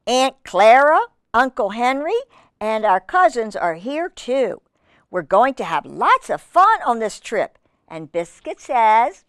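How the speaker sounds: measured, lilting storybook narration; reading to children. Acted. Reader telling children Biscuit's story, in a lilting read-aloud. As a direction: read it clearly to little listeners.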